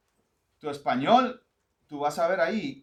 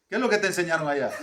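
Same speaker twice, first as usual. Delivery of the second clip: laughing teasing quote; 4 dB louder, much faster than usual. Retold or imitated. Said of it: "me dijo una vez".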